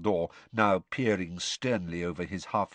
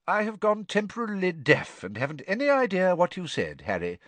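lightly voiced old headmaster, dry joke; a hint of wry old wizard pretending not to hear; Dumbledore's voice; 9 semitones higher than usual. Dumbledore voiced, mock deafness.

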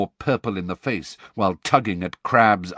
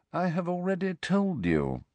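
smoothly; 9 semitones higher, 5 dB quieter than usual. A narrator's reading. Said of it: "said Snape smoothly".

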